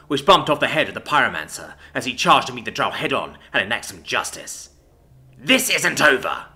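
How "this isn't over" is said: slow, louder snarl of a threat. Acted. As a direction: spit the promise of revenge slowly. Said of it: "Isadora snarled".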